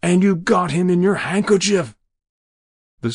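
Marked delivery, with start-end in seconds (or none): 0.0-1.9 high, strained, louder croak. Acted. Jabez accusing the stranger, croaking in shock. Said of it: "he said in a croak".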